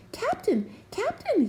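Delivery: high, loud call. A narrator's reading. Jubal calling at the cabin door, loud and high. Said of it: "he called".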